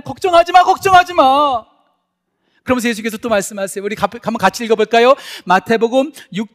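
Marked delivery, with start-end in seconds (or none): 0.0-0.6 emphatic command. Acted. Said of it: "preacher repeats command". 0.6-1.7 slow emphatic repeat. Acted. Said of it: "preacher repeats command slowly".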